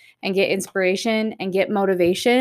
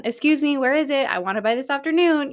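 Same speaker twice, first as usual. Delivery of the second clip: higher-pitched playful impatient listener; lightly acted call-out, pitched up; mock demanding caller; 5 semitones higher, faster than usual. Listeners phoning the host to call them out, mock demanding. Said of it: "I need y'all to call me out".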